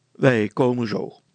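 loud, decisive statement; firm. A narrator's reading. Brilstra settles it with his wife, firmly. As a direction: close the matter firmly. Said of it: "zei Brilstra ferm".

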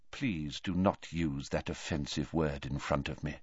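low, soft and firm; old headmaster quietly rebuking the boy; quiet rebuke. Acted. Weakened Dumbledore rebukes quietly.

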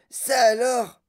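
loud, high burst of surprise; amazed exclamation. A narrator's reading. Boy seeing the squirrels, amazed exclamation.

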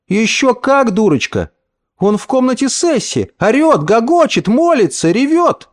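put-on high childish voices, hushed then eager; children thrilled by the noise upstairs; excited little girls. A narrator's reading. Cousins whisper excitedly about the crying uncle.

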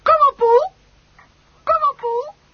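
loud, high call across a distance; father calling out to Poel to come along. Acted. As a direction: call him over, loud and bright. Calling someone repeatedly.

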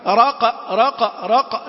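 short "رق" as raq, the i lost; wrong slackened kasra. Shown as a demonstration. Teacher showing the error, kasra slackened. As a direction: repeat "رق" with an open a-like vowel. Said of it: "لا".

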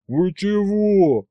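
high, slow hurt protest; slow high offended cry. A narrator's reading. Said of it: "обиделся я".

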